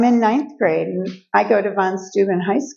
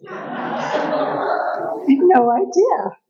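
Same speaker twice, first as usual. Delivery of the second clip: laughing through the words at her own innocence; slow, laughing aside; 8 semitones higher, much slower than usual. Real, not acted. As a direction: chuckle it out, amused.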